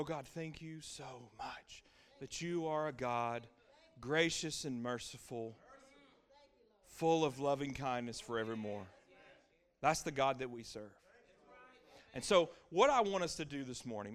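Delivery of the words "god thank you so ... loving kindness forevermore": grateful prayer. Retold or imitated. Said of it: "And I go".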